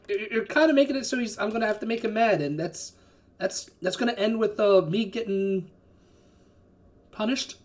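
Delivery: hesitant, halting in-character explanation; man outside. Acted. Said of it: "the man outside goes like".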